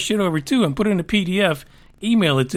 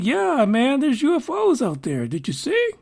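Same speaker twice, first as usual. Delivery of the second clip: lightly voiced casual Obama, pitched up; a hint of a breezy, excited Obama; teasing impression of an eager ex-president; mock Obama; 5 semitones higher than usual. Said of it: "he's out there basically saying".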